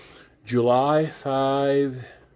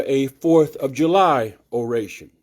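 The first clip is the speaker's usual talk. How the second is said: "a Fourth of July oration" declaimed, louder, with a falling close on July; oratorical reading; 2 semitones higher, 3 dB louder than usual. Shown as a demonstration. Reader voicing Douglass's Independence Day address, loud oration. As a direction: proclaim "Fourth of July" to the hall. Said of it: "I'm trying to do it with the inflection of the speaker".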